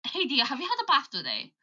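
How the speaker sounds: natural Birmingham accent; understated Brummie accent. Shown as a demonstration. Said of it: "But the Birmingham accent".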